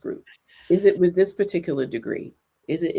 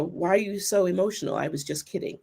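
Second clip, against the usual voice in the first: dismissive; 5 dB quieter, faster than usual. Retold or imitated. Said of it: "you know".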